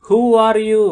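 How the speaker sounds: high, loud call into the dark; brave shout. Acted. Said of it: "గట్టిగా అరిచాడు". (ధైర్యంగా గట్టిగా అరుపు)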